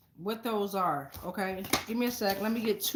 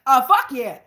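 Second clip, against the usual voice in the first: loud emphatic; 11 dB louder than usual. Real, not acted. Repeats the answer emphatically.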